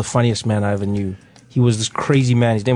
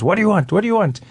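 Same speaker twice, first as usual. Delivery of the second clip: impatient policeman; 8 semitones higher, faster than usual. Retold or imitated. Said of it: "he looks and he says".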